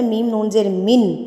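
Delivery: slightly slowed, each syllable separate; careful spelling. Shown as a demonstration. Teacher gives the correct spelling, slightly slowed. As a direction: spell it out evenly and clearly. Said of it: "اصل اس کا جو توڑ ہوتا ہے".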